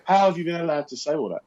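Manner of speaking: lightly acted, puzzled disbelief; bewildered. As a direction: imitate a baffled onlooker's question. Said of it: "you could see confusion and bewilderment".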